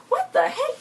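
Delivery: very high laughing what the heck; cracking up, high-pitched; laughing disbelief. Real, not acted. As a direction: squeal it through a laugh. Own reaction to the fight.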